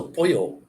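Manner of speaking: "pollo" with the L's as a Y sound; double L as Y. Shown as a demonstration. Teaching Spanish double L, "pollo" said with a Y. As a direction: say "pollo" with a y in the middle. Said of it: "like a Y".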